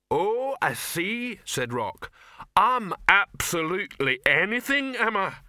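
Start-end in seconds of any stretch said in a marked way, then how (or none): 0.1-1.4 high, slow troll umbrage; huffy, ponderous troll; offended troll. Acted. 2.6-5.4 high, loud troll indignation; affronted, ponderous troll; offended troll. Acted. Offended troll takes umbrage.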